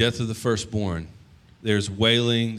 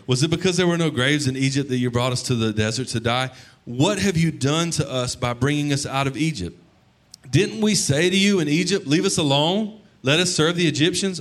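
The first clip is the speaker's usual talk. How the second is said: sarcastic whining; 5 semitones higher than usual. Retold or imitated. Preacher voicing the Israelites mocking Moses, sarcastic whine. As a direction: sneer it at Moses like a sulky crowd. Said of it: "So much sarcasm there".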